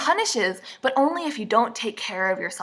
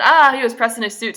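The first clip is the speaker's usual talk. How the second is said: posh mock quote; 4 semitones higher, 9 dB louder than usual. Imitating someone's odd phrase.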